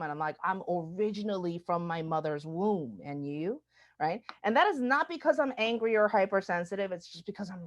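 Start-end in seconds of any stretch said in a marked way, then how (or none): 0.4-3.6 understated weary retort; even, deadpan comeback to a nosy question; done with it. Retold or imitated. Tired of the eighth person asking, fed up. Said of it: "I'm kind of done with this conversation".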